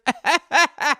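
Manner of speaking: high, staccato kiddie wail; mock child outburst. Little boy told no Santa, mock wailing. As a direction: imitate a small child's outburst.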